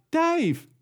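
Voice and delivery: high, loud cry of recognition; overjoyed mock exclamation; delighted greeting. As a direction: hail a long-lost pal. Film star greets old friend.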